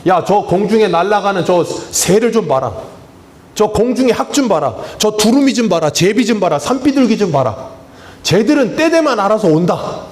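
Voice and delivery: a hint of an annoyed God; God scolding. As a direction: chide like an exasperated God. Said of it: "하나님께서 화가 나시니까 뭐라 그랬습니까".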